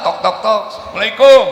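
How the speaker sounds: loud, pressing greeting at the door. Shown as a demonstration. Husband knocking at midnight, calling the greeting loud. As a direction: knock hard and call out loud. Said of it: "ngetoknya lebih keras nggak tuh".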